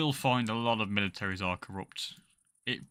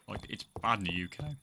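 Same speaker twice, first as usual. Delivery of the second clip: voice crack. Real, not acted. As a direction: voice cracking mid-sentence. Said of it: "Holy fucking voice crack".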